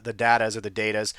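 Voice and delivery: "Datas" first as DOW-tas, then as DAY-tas; two pronunciations. Shown as a demonstration. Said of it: "however you say it".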